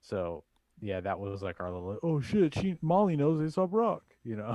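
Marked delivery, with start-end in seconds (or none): 2.0-4.0 excited. Retold or imitated. Friends' excited reaction quoted.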